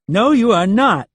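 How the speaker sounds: loud, high, slow shout. A narrator's reading. Leland shouts to stop Rapp leaving, loud and high. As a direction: shout him down. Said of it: "Leland shouted".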